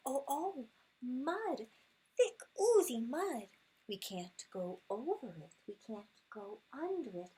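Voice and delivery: sing-song picture book rhythm; storybook read-aloud. Acted. Mother reading a picture book to her son, sing-song.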